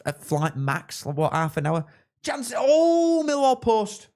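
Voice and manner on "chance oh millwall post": loud, high-pitched cry at a near miss; startled match reaction. Real, not acted. Watchalong host reacting to Millwall hitting the post, startled shout. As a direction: burst out with a drawn-out, high shout.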